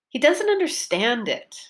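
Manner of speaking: last syllable of "understand" lifted, then falling; stress on UNDERSTAND. Shown as a demonstration. Teacher models her focus word, stress on "understand". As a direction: punch the "stand" in "understand". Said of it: "my focus word was understand".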